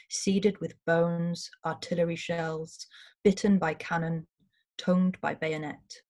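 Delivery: slow, deliberate poem reading; poetry reading. Acted. Host reading his war poem to the audience, slow and grave. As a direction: weigh each image, unhurried.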